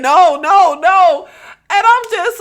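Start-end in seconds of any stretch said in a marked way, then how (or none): 0.0-1.3 movie quote. Retold or imitated. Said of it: "The lady from Get Out saying".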